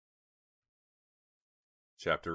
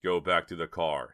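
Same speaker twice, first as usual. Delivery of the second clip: urgent; 9 dB louder than usual. Acted. Urgent order to the girls.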